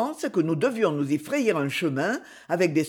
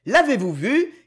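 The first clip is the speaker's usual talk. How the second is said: higher-pitched, exultant question; exultant cry; 5 semitones higher, 4 dB louder than usual. A narrator's reading. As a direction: cry it out in triumph. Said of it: "cria Challenger exultant". (cri exultant)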